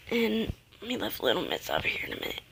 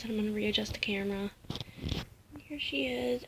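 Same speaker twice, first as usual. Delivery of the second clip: whisper; 7 dB quieter than usual. Real, not acted. Baby asleep, keeping voice down.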